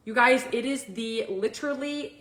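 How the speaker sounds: talking around whitening strips. Real, not acted. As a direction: teeth covered by whitening strips. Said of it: "I have whitening strips on".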